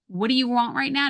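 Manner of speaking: sharp tone. Shown as a demonstration. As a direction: clip the question a little impatiently. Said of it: "Notice the tone".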